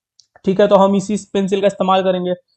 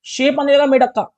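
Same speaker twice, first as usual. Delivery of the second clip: more excited; 5 semitones higher, 4 dB louder than usual. Real, not acted. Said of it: "repeated with more excitement".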